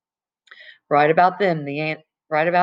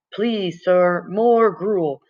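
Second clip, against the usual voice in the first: Oliver Twist beggar; 2 semitones higher, much slower than usual. Retold or imitated. Freak begging like Oliver Twist.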